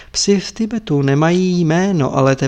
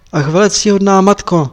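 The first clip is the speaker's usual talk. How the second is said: lamenting; 4 semitones higher, 5 dB louder than usual. Acted. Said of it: "naříkal Tepaga".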